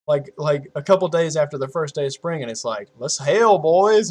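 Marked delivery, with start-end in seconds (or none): 3.0-4.1 retold rallying cry. Voicing the weather as a cheerer.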